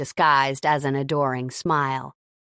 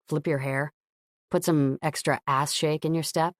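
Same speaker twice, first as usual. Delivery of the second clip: man's voice; 2 semitones lower than usual. Acted. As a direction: coax her, man to woman. Gavin coaching Scarlett.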